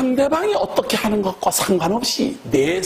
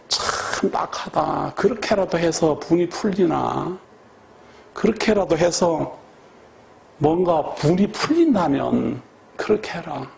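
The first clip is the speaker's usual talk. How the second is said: pitying inner voice; 2 semitones lower than usual. Retold or imitated.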